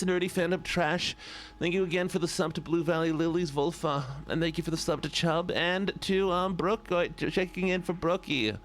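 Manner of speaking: nasal pinched-nose voice; pinched nose impression. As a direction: hold the nose and talk through it. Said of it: "And now I can go back to the normal voice".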